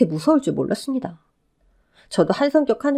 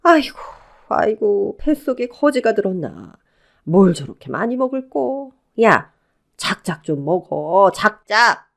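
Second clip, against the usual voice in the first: scornful mother-in-law grumbling and scolding; nagging scorn; slower than usual. Acted. Mother-in-law picking on how much she eats, scornful. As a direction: needle her with weary disgust. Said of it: "형님을 구박하기 시작했습니다".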